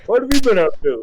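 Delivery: mock-friendly officer buttering up an old corporal; imitating Hardison. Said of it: "That's how he talks to you".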